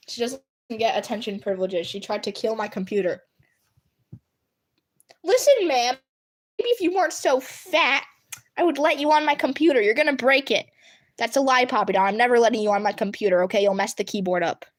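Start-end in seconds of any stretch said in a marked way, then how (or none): 5.2-10.7 higher-pitched mock lecture to a pet; sassy telling-off of a pet; playful scolding. Real, not acted. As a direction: tell the cat off with raised pitch.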